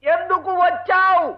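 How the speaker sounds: slow, with a pause after each word; laboured word-by-word question. Acted. Husband questions hard-of-hearing wife, slow and exasperated. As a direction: climb in pitch and stretch the last words.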